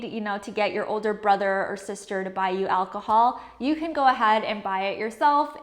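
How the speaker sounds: ordinary talk, nothing marked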